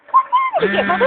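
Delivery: squeaky high teasing question. Pretend. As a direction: pitch it way up to tease. Teasing mother.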